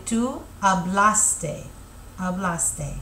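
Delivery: Tú hablaste said slowly, stress on the ste; slow model pronunciation. Shown as a demonstration. Teacher modelling the tú form, slow and clear. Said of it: "you would say".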